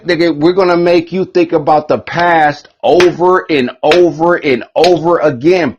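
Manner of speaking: high, pushed preacher-like taunt; mock priests. Priests telling them, mock priestly taunt.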